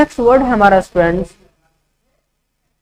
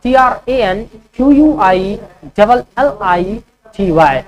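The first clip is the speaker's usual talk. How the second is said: slow letter-by-letter dictation; slow spelling dictation; spelling out slowly. Shown as a demonstration. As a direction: spell each letter clearly for students. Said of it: "ट्रैंक्विलिटी का spelling क्या होता है".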